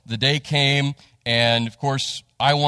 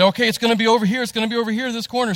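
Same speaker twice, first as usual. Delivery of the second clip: excited crowd; 9 semitones higher, much faster than usual. Retold or imitated. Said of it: "And everybody said".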